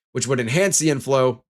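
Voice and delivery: a hiccup pops the words. Real, not acted. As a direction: hiccup catches mid-phrase. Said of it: "enhance my hiccups".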